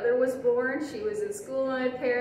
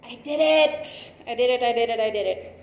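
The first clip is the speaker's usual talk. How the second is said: excited; 6 dB louder than usual. Real, not acted. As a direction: celebrate the small win. Pin finally goes through.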